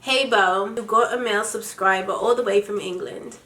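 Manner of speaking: reading aloud in a put-on British accent. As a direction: read it like a Brit. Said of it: "read it in my British accent".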